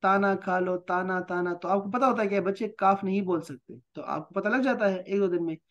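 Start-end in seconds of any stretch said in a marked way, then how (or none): 0.0-1.5 "ताना" with t in place of k; children's mispronunciation. Retold or imitated. Teacher quoting children who can't say k, mispronunciation. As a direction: imitate a child's "ताना" for khana, own voice. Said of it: "बच्चे ताता बोलते हैं".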